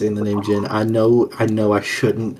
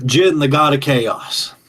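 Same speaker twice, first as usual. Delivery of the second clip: summoning call; 4 semitones higher, 4 dB louder, slower than usual. Acted. Summons a god by name.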